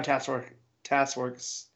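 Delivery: "Task Force" slurred into "Tass Works"; tongue-tied stumble. Real, not acted. Podcaster stumbling over the team's name, tongue-tied. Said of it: "That's hard to say".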